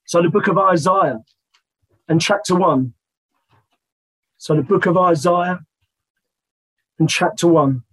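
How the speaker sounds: hoarse, croaky speaking voice. Real, not acted. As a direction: talk through a croaky throat. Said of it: "apologies about my croaky voice".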